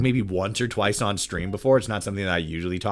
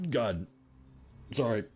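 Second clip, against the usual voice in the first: vomiting; 10 dB quieter than usual. Real, not acted. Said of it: "I'm throwing up on stream".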